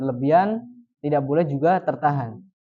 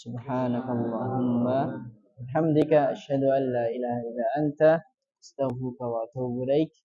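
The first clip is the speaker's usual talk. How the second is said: soft recited dua; closing prayer; 3 semitones lower, 5 dB quieter than usual. Acted. Teacher closing the lesson with the majlis prayer. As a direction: murmur the prayer softly to close. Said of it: "dengan doa kafaratul majlis".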